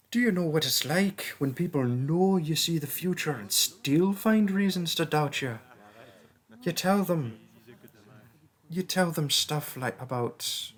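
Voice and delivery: put-on cursed seer girl. Cursed seer warning a classmate away from dragons, earnest and pleading. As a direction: play the doubted prophet who finally opens up and begs.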